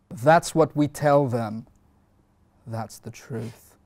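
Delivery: Philadelphia accent. Shown as a demonstration. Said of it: "do you wanna do the rest".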